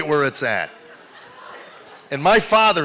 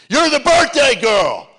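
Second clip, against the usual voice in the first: high, drawn-out cheering yell; 11 semitones higher, 7 dB louder, slower than usual. Acted. Grandpa yelling to granddaughter zipping past, high cheer. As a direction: holler it high and loud, stretched. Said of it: "and I yelled at her".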